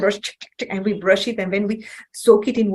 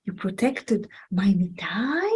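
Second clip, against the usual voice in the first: slow, breathless, choked whisper; moved to tears by gratitude; tearful whisper; 2 semitones lower, 4 dB quieter, slower than usual. Retold or imitated. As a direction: whisper it almost crying. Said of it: "And Chaitanya Mahaprabhu said".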